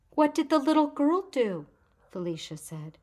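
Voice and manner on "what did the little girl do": put-on much higher, louder little girl's voice; an eager child asking what happened; child's question. A narrator's reading. Felicia urging the woman on, eager higher child voice.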